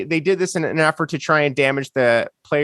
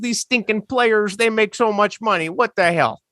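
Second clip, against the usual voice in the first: put-on half-hearted Chicago accent that sounds Canadian; botched Chicago accent; 4 semitones higher than usual. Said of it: "it was supposed to be a Chicago accent".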